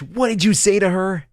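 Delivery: loud, high furious roar at the passenger; yelling in rage. Acted. Pilot confronting rude passenger, furious loud yell. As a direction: bellow it like a pilot about to explode. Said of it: "yells in rage".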